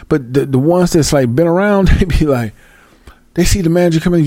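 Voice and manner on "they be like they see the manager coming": unvoiced whisper as the manager nears. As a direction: hush it like workers spotting the boss. Whispering workers seeing manager.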